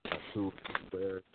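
choppy breaking phone line; words cut up by a bad line; call dropping out. Real, not acted. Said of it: "your line breaking up a little bit".

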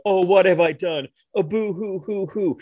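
hammy high sobbing lament; mock boo-hoo wailing, slowed down; fake crying. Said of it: "they go".

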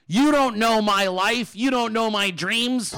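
a hammed-up hurt plea; mock wounded protest. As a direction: drag out each word, wounded and dramatic. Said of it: "And he said".

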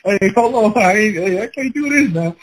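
high, panicky protest; hammed-up freak-out; mock panic. Panicked inner voice under shower.

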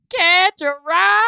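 high, drawn-out yell; Scooter screaming. Retold or imitated. Imitating a game character as the city crumbles, screamed. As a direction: belt out the catchphrase long, loud and high. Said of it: "He, like, screams it".

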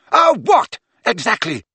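high, loud furious challenge; shouting. Acted. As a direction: hurl the question furiously. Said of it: "shouted Ginny".

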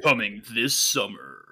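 movie trailer voice. Acted. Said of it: "the movie trailer voiceovers".

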